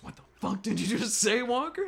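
loud, high-pitched challenge to a recruit; mock angry confrontation; outraged drill instructor. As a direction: imitate an instructor who just overheard something.

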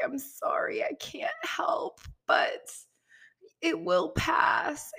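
put-on soft, slow whisper to a crying child; soothing whisper. Mom comforting her crying toddler.

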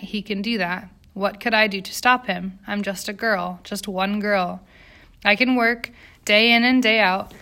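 lightly voiced immigrant factory girl, indignant; aggrieved young striker. Striker telling a visitor about factory abuses, lightly voiced grievance. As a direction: plead the workers' case with mild insistence.

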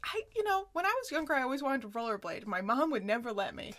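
high, timid little voice at first; a hint of a timid patient telling her therapist; lightly voiced client. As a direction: play a shy client confessing a childhood wish.

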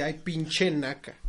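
slow, drawn-out disdain; scornful retold insult. Retelling an insult to a moviegoer, drawn-out scorn. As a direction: stretch it out in acted contempt.

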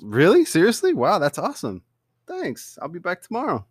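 imitating a naive boyfriend thrilled by the lie; gushing delight. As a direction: gush like it's the best news ever. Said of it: "Andy's reaction".

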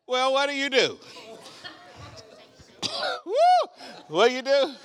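excited preaching. Acted. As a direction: fire it at the crowd. Preacher retelling shock, crowd.

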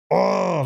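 high-pitched drawn-out "oh"; imitated fired-up yell. Coach showing what life coaches aren't like, fired-up cry. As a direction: burst out with a stretched, high cry. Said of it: "life coaches aren't like".

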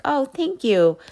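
bright and breezy gratitude; bright polite thanks. Retold or imitated. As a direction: chirp it back like accepting a nice remark. Her polite reply, retold.

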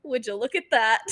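amused mock awe, laughing through it; laughing quote. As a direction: laugh while mimicking his line. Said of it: "his exact words".

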